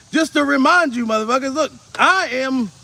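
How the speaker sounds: ordinary delivery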